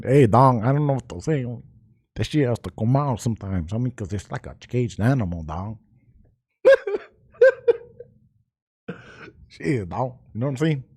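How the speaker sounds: put-on relaxed Cholo accent, homie talk. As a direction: let the Cholo accent slip out. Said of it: "your Cholo accent slipped again".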